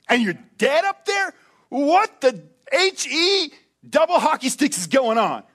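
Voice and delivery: a follower stunned at the cross; incredulous cry at the dead Messiah; shocked disbelief. Retold or imitated.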